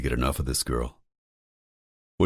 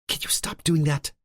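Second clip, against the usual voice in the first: higher, lightly voiced woman; female character voice; 13 semitones higher than usual. A narrator's reading. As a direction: play Lauren, higher pitch.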